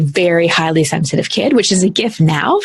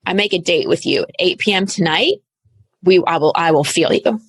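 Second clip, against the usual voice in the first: talking to anger. Retold or imitated. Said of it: "I'm like".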